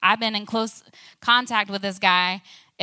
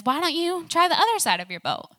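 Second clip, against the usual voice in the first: high-pitched call across the water; retold shout, pitched well up; mock distant shout; 8 semitones higher, 4 dB louder than usual. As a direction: call out lightly to someone far off. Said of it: "they hear this man shouting at them".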